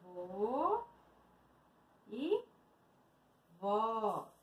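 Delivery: soft, widely spaced words; soft repeat. Real, not acted. Teacher echoing the words to herself, softly spaced. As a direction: repeat them slowly under your voice.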